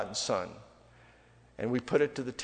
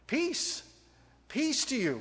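high-pitched greeting; 10 semitones higher, 4 dB quieter, slower than usual. Acted. Preacher acting out a shalom greeting, lightly high. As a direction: greet in a much higher voice.

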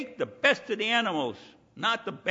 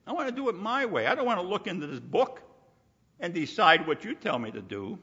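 stubborn my way; faster than usual. Retold or imitated. Voicing a worldly objector.

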